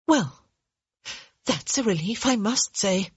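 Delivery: a hint of a dry, peevish lady; peevish young woman. Hyacinth's peevish reply.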